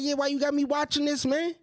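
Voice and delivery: half-laughing whine of a man who cried; mock whiny crying. He complains to his girl about the movie, mock whine. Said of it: "I'm like".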